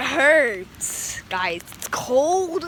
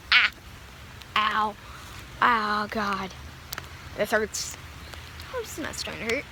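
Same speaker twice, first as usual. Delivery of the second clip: quiet pained groans; 7 semitones lower, 10 dB quieter, faster than usual. Real, not acted. Standing in hail, quiet groans.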